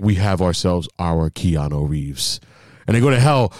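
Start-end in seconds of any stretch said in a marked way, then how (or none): 0.0-2.4 mock heaven boast. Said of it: "And they were like".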